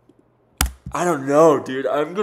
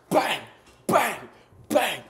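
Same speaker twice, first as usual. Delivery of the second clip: excited bang; 8 semitones higher, slower than usual. Real, not acted. Celebrating a correct guess.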